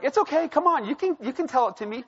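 put-on teacher coaxing the confused boy to answer. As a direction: gently urge a shy child to speak. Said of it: "she's like".

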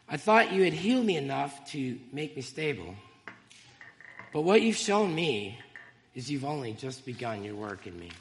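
reads her own poem aloud, heartfelt and measured; poem reading. Real, not acted. Testifying to the congregation by reading her poem, earnest recital. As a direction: let each line land like a confession. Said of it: "And I'd like to share it with you".

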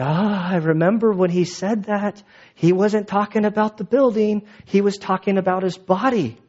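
mild acted aha moment; dawning realization. Disciples suddenly recalling what Jesus told them, dawning realization. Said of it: "one of those aha moments".

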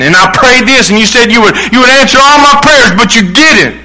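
complaint rising in pitch to a peak; acted complaint. Believer accusing God over unanswered prayers, acted complaint. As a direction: protest as if let down.

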